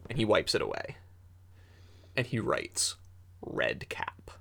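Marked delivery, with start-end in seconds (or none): 3.4-4.3 low, unvoiced whisper of the name; game master whispers the monster's name; hushed dread. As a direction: breathe the name in fear. Child writes the dread name.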